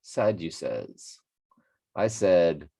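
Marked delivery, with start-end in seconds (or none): 0.0-1.2 Sadducees slowly as SAD-you-sez, short last vowel; echoed pronunciation. Shown as a demonstration. Reader copying a pronunciation video, slow SAD-you-sez. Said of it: "how it's pronounced here".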